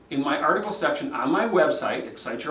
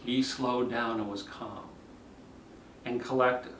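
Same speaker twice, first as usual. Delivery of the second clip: lower, softer, settled delivery; calm and collected; 4 semitones lower, 8 dB quieter than usual. Shown as a demonstration. Coach describing the candidate who slowed down, calm and collected. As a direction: bring it down and steady it. Models the calm speaker against crazy speech.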